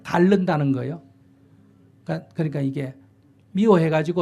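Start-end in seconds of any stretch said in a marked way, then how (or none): 0.0-0.7 Gyeongsang dialect word. Retold or imitated. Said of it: "경상도 사투리로".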